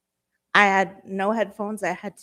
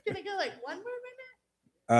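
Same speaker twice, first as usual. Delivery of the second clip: sheepish laugh; 11 semitones higher, 9 dB quieter, much faster than usual. Real, not acted. Asking for extra time.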